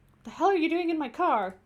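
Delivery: loud, high furious demand; angry shout. Acted. Driver yelling at the stranger who jumped in, angry shout. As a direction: bark it at the intruder in the backseat.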